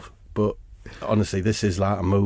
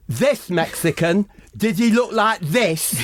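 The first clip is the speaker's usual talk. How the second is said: laughing mock; 8 semitones higher than usual. The speaker mocks accent, laughing.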